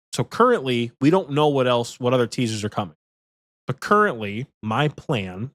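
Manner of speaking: stuffy from allergies; sniffly allergy voice. Real, not acted. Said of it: "if I sound a little sniffly".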